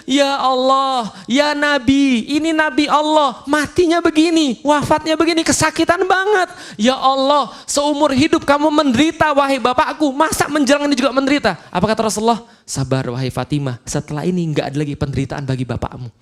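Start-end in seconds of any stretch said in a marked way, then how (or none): 0.1-11.6 high, pleading cry of a grieving daughter; Fatimah weeping. Retold or imitated. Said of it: "nangis dia". 12.6-16.1 dying father calming his weeping daughter, low and soft; gentle comfort. Retold or imitated.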